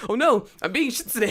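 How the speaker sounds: high, loud mock-panicked wail; mock dismay. Embarrassed learner panicking over his English, hammed-up dismay. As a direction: wail it in exaggerated dismay, laugh breaking in.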